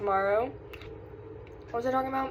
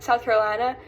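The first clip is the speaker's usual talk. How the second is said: put-on light Southern US accent; retold slip into a Southern accent; 2 semitones higher, 4 dB louder than usual. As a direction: say it with a touch of Southern twang. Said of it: "I said it with an accent".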